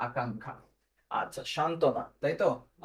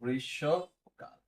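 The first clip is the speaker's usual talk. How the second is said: slow spelled-out reading; 4 dB quieter, much slower than usual. Shown as a demonstration. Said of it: "এখানে যেভাবে আছে সেভাবে লিখবা".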